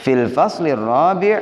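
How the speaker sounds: slow model lines with long pauses for the class to repeat; teacher leading students line by line; call and response. Shown as a demonstration. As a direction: say each line slowly and wait for echoes. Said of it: "mohon diikuti".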